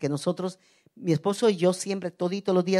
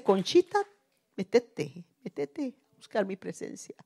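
God's gentle call; 3 dB quieter than usual. Retold or imitated. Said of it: "Me dice".

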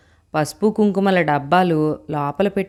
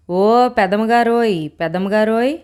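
calling out; 4 semitones higher, 3 dB louder than usual. Acted. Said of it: "అంటూ కేకేశాడు". (దూరం నుంచి గట్టిగా సాగదీసి పిలుపు)

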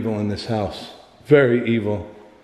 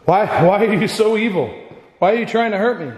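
frightened pleading; 9 semitones higher than usual. Real, not acted. Pleading with the evil presence.

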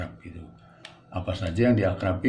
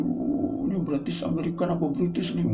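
mocking critic; 10 semitones higher than usual.

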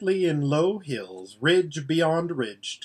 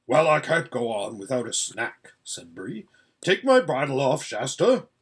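gruff horse voice. Acted. Voices Bree.

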